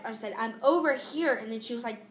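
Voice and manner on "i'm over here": a louder, insistent call across the house; mild mock yell at mom; retold yell to mom. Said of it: "Dang, you don't have to yell".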